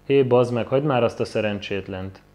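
loud call across the room; man shouting. Acted. A bystander in the bar shouting at the bully, loud. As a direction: shout at him to leave the poor guy alone. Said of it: "kiabál egy ember".

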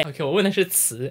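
ordinary delivery

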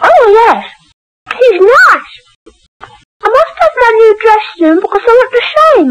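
put-on little girl with a touch of Cockney; slight Cockney accent. Child telling mother about imaginary Harry, slight Cockney accent. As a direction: chatter quickly with light Cockney vowels. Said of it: "a sort of Cockney accent".

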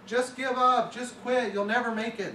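high-pitched cartoon frogs telling him to quit; jeering frogs. Frogs on the roadside jeering at the frog in the bucket, high mocking voice. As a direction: taunt him in a squeaky frog voice.

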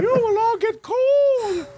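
slow, high, loud drill order; drill sergeant. Pretend. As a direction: bark it slowly at the platoon. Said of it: "he's like a drill sergeant".

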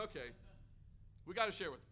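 understated, hesitant self-urging; squeamish resolve. Retold or imitated. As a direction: talk yourself into it, mildly reluctant. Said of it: "we kinda squeamishly go up".

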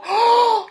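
sharp high gasp of surprise. Acted. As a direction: gasp at the sight. Girl gasps at queen.

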